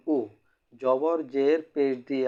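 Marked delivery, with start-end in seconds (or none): 0.1-0.2 "উ" said as an "oo" vowel; vowel sound demonstration. Shown as a demonstration. Teacher showing learners the pesh sound, "উ" as a clear "oo". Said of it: "পেশের উচ্চারণ".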